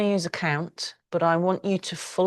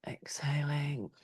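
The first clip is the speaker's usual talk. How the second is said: slow, softer breathy whisper; whispered cue; 8 dB quieter, slower than usual. Real, not acted. Teacher guiding class through breath, slow whisper. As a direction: let the word drift out on the breath.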